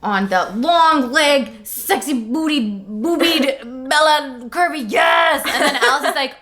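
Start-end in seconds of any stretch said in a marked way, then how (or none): 0.6-5.4 mock cheer. Focusing hard, cheering.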